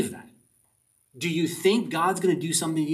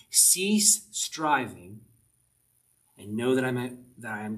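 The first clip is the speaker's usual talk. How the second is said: whispered; 3 semitones lower, slower than usual. Shown as a demonstration. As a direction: whisper it slowly. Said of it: "translations of the Bible says this".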